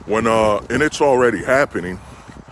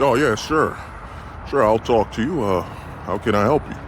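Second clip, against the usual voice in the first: lower, easygoing man answering; a hint of a laid-back man; 4 semitones lower, 3 dB quieter, faster than usual. Interviewed drifter answers the reporter, lightly voiced and relaxed. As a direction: shrug it off casually.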